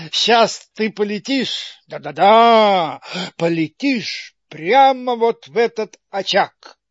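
gloating laugh. Acted.

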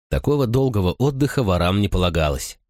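ordinary delivery

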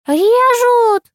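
piercing, very high loud scream; old woman screaming in the brawl. A narrator's reading. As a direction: shriek it at the top of the lungs. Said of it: "орала вторая".

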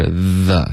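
THE with a clear th friction; fricative th. Shown as a demonstration. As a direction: rub out the th in THE. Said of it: "是一个摩擦音". (“the”读摩擦音)

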